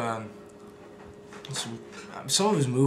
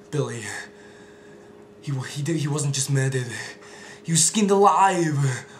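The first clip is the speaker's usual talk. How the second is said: Arnold impression; 2 semitones higher, 6 dB louder than usual. Arnold telling Billy grim news, impression. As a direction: deliver it like a grim Schwarzenegger. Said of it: "those are my Arnold impressions".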